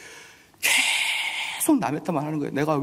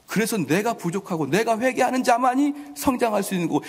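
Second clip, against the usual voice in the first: higher, louder, half-sung sermon cadence; full-force preaching; 7 semitones higher, 3 dB louder than usual. Acted. Pastor urging the congregation toward repentance, full-force preaching. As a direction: preach it out, ringing over the crowd.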